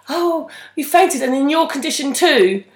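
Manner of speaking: mock Lizzie. Mimicking Lizzie's gushing line.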